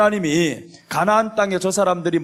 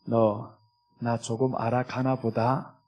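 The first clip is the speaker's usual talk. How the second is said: lower, softer, slow fond murmur; tender voice of the Lord; 7 semitones lower, 7 dB quieter, slower than usual. Acted. The Lord gently telling the believer, lower and soft. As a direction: speak gently as a pleased father. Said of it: "우리 주님이 어떻게 얘기하시겠어요".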